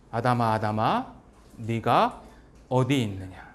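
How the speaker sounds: low, solemn voice of God calling out; deep voice calling a lost son; God calling Adam. Retold or imitated. God calls hiding Adam.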